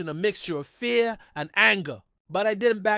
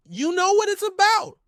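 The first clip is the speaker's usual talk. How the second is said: high, loud, shaking with nerves; trembling voice; 7 dB louder than usual. A narrator's reading. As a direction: voice trembling on every word. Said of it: "my voice trembling".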